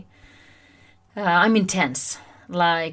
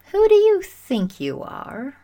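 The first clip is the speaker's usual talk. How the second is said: high, loud, slow question with a rising end; genuinely curious, intrigued; 8 semitones higher, 5 dB louder, slower than usual. Shown as a demonstration. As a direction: ask it wide-eyed, like a Disney character asking a child. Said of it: "In a genuinely curious and intrigued way".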